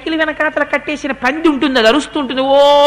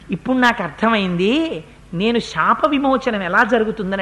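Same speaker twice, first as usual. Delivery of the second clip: demon remembering; 2 semitones lower, 3 dB quieter than usual. Acted. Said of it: "వాడు అన్నాడు".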